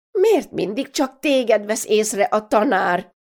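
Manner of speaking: mother rounding on her daughter, questions piling up; scolding mother. Acted. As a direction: grill her like a fed-up mother.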